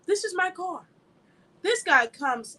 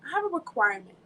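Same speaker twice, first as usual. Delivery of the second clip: voicing God. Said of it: "God is saying".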